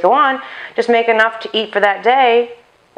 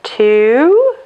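loud counting, pitched up; counting aloud; 4 semitones higher, 5 dB louder than usual. Real, not acted. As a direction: call out each count. Counting cups of flour aloud.

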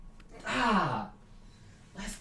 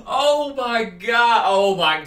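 exclaiming; 3 semitones higher, 9 dB louder, slower than usual. Real, not acted. Reacting to teabag.

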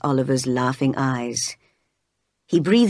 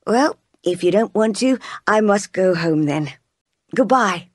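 put-on higher, bright-eyed eager girl; lively young lady; 4 semitones higher than usual. Miss Oliver leaves, disappointed.

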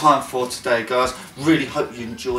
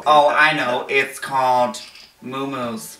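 mock Los Angeles socialite accent; 2 semitones lower than usual. Naming the club for friends, mock LA accent. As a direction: play along as an LA socialite. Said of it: "what is it like to be in L A".

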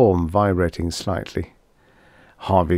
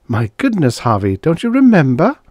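forced gaiety; 7 semitones higher, 5 dB louder than usual. A narrator's reading. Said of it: "said with forced gaiety".

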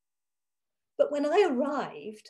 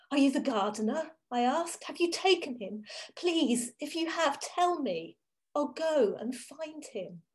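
urgent pleading; 4 semitones higher than usual. Acted. Pleading with the stranger.

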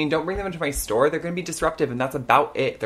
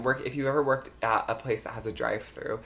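ordinary talk

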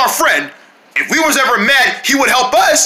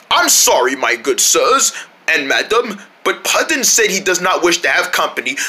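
lightly voiced butler; 4 semitones lower than usual. Butler turns visitors away.

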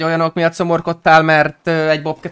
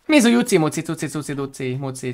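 playful cutesy cooing; 5 dB quieter than usual. Pretend. Streamer cheering up a sulky friend, playful cooing. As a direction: coo silly rhymes like baby talk.

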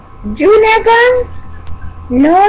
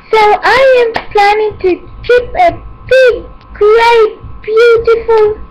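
rising, eager, higher voice over the list; gushing excitement; 4 semitones higher than usual. Acted. Host promising the kids a big party, excited. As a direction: pile up each happy word with glee.

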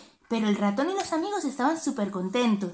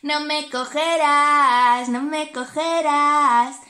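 burla; 4 dB louder, much slower than usual. Acted. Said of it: "se puso a reír".

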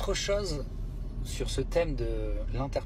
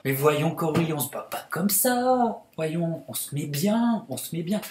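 mock lecturing; 3 semitones higher, 6 dB louder than usual. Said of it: "Sanders t'a surpris".

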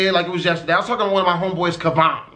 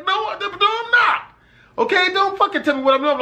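irritated; 10 semitones higher than usual. Retold or imitated. Annoyed denial to friend.

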